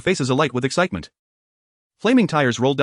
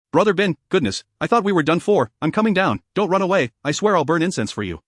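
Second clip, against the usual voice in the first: frantic; 4 semitones higher than usual. Acted. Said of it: "The voice from the scaffolding was frantic".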